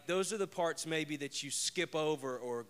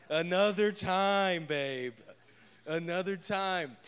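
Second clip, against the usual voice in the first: slow, louder mock-drowsy put-off; husband woken at night, slowly waving his wife off; sleepy brush-off; 4 semitones higher, 6 dB louder, slower than usual. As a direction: fob off an excited wife, half asleep. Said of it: "And I'm like".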